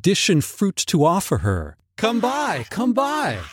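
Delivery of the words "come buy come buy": goblin cry. Acted. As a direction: tempt her with a high sly whisper-sweet cry. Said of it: "was still their cry".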